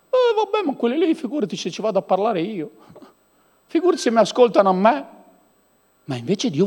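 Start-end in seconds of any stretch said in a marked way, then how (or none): 0.1-5.1 mock reluctant believer. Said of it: "Perché Dio ti dice".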